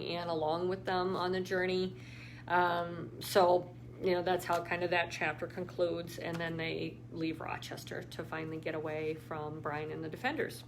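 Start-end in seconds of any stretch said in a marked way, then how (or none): 6.2-10.6 whisper. Real, not acted. Whispered spoiler of the plot.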